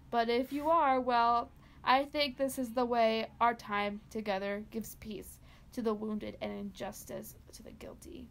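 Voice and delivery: story narration. Acted. Reads a dark Christmas story.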